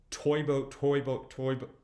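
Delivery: quick back-to-back tongue twister; fast repeats. Shown as a demonstration. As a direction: rattle it off several times in a row. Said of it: "Try saying it a few times fast".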